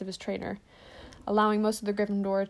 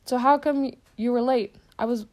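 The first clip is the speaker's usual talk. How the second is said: a touch higher and louder, a big friendly half-giant; hearty but held back; first try at the giant's question; Hagrid's voice; 3 semitones higher, 4 dB louder than usual. Acted. Hagrid asks Harry.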